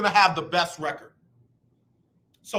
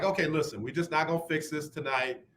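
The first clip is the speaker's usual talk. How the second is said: softer, calm and reassuring; 5 semitones lower, 4 dB quieter than usual. Retold or imitated. To his wife at bedtime, soft calm reassurance. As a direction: settle her down gently. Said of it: "So now it's like".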